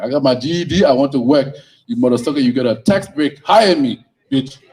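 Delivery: loud, brash demand for a job; mock demanding. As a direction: bark it out like a cocky job seeker. Acted job-seeker demanding a job.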